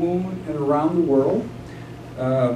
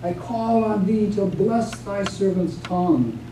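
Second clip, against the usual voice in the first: measured, reverent invocation of the moon; solemn poem recitation. Acted. Poet recites invocation from epic poem.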